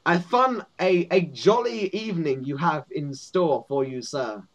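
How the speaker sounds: stumbling over courtly phrases; lightly voiced guard fumbling the formalities; stuttering goblin guard. Goblin guard addresses a visitor, stumbling formality. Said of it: "you shouldn't be stuttering so much".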